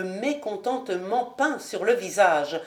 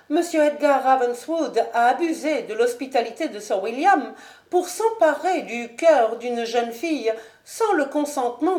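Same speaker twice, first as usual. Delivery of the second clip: higher, stiff polite noblewoman; higher proud lady; Lady Ashton; 4 semitones higher than usual. Acted. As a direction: coolly justify herself to the marquis.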